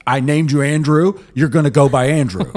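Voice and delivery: a touch of a strict dad laying down the law; dad's voice, heard as vaguely Northeast; imitating dad. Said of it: "I don't know why I said it in that voice".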